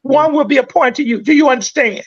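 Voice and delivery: rapid-fire police warning, rattled off; reciting Miranda rights. Retold or imitated. Host mocking a cop's rushed rights reading to kids. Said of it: "the only thing our black kids know is, is this".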